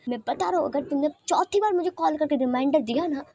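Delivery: playful scolding, pitch lifting; mock-angry. Wing on the phone to Lanzan, mock-angry. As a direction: threaten lightly while secretly enjoying the attention. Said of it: "reaction तो गुस्से वाले दे रहा था".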